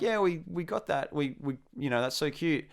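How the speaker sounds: a hint of charmed girls, starting high and soft; lightly imitated admirers. Girls charmed by the Australian, lightly mimicked cooing. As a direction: lightly mimic them finding it cute.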